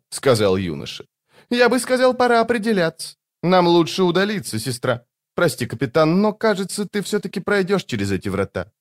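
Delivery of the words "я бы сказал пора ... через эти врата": put-on high, light young man; a youth, politely regretful; young man's voice. A narrator's reading.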